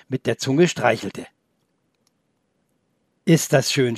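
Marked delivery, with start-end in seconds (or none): 3.2-4.0 amazed. Acted. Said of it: "staunte Felix".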